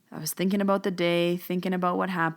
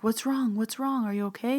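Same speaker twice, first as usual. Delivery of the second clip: mild retold concern; 4 semitones higher than usual. Coworker's worried questions acted out.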